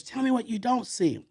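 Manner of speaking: cussing out. Retold or imitated. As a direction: press him hard for the answer. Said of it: "this time he uses, he's cussing me out".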